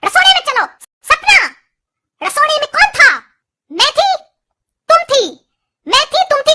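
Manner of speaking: mock interrogation. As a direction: grill the bride like a dramatic TV saas.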